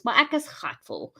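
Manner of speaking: Cape Flats slang, lightly; a hint of Cape Town coloured accent. Real, not acted. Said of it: "earlier reader: cape town coloured accent".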